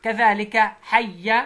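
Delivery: حي said slowly and clearly; slow syllable model. Shown as a demonstration. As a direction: draw out حي for the child. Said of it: "teacher models syllables".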